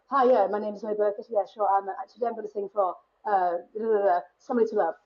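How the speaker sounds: lightly put-on posh RP audition voice; ridiculous posh accent. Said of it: "I always put on this really ridiculous accent".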